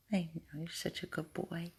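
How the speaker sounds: hushed, tender praise; very soft reassurance; soft dog praise. Real, not acted. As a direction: murmur gently to a beloved pet. Soothing the dog.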